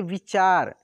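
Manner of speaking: विचार said clear and full, teacher modelling; word said clearly. Shown as a demonstration. Teacher modelling विचार for pupils, clear and careful. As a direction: say विचार cleanly, each sound plain. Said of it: "तो व में से छोटी की मात्रा वि".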